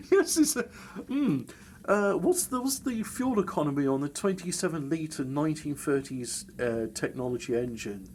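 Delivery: squeaky high, loud mock enquiry; hammed-up high inquisitive customer; mock customer question. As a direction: play a keen buyer asking in a high voice.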